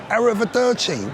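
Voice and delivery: showy, singsong Italian farewell; Italian goodbye. Retold or imitated. Mock Italian goodbye to a friend, hammed-up. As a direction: savour it like a proud Italian. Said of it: "full of expression".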